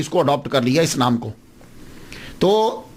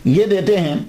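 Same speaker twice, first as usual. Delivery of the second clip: normal talking voice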